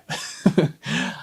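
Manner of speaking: breathy teary laugh, half crying; tearful laugh. Real, not acted. Reading a dead woman's note, a teary unvoiced laugh. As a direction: laugh through the tears at a sad note.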